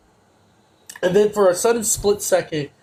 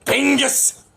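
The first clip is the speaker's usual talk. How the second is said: jolly italian pizza chef; 6 semitones higher than usual. Retold or imitated. Mario pizza phone call bit.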